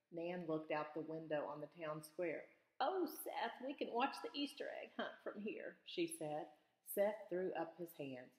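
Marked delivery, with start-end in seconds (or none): 2.8-5.8 delighted. A narrator's reading. Nan delighted at the window.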